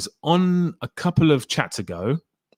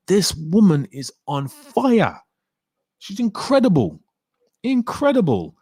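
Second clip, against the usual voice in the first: gushing praise; 7 semitones higher than usual. Retold or imitated. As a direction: rave about her like a dazzled fan. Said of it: "and I was like".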